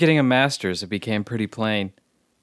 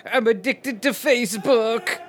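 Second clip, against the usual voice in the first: recruit shout; 11 semitones higher, slower than usual. Acted. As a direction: snap it out to the sergeant. Recruit answers sergeant.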